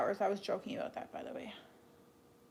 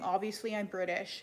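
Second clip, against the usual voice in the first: sarcastic. Retold or imitated. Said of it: "It was obviously sarcasm".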